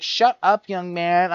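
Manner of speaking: put-on sharp high shouted "Shut up, young man"; teacher yelling. Teacher yelling at a student to shut up, mock shout. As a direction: snap at the student like a fed-up teacher. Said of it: "And she'd be like".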